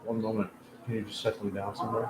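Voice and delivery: soft, quick aside offscreen; quiet aside. Real, not acted. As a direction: drop the voice to talk offscreen. Aside to someone off camera.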